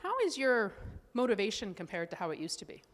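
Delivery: lightly voiced doctor, asking high and bright; a hint of the gentle doctor's probing; mild imitation of a doctor asking questions; quoting the doctor. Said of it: "And she said".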